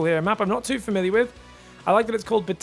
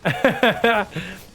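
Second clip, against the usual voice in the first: laugh; 4 dB louder than usual. Real, not acted. Laughing at the voice pack.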